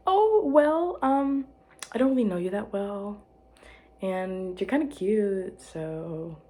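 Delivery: high hesitant start, sinking to a small finish; nervous confession. Retold or imitated. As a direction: confess a crush awkwardly, trailing away. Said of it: "you make me nervous".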